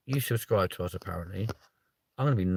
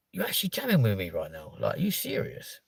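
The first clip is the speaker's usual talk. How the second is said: breathy disbelief; 6 dB quieter than usual. Real, not acted. Streamer to chat, stunned half-whispered disbelief.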